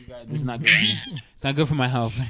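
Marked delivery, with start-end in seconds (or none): 0.3-1.0 high-pitched loud squeal of disgust; funny scream. Real, not acted. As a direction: shriek it out, half laughing. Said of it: "That was a funny scream".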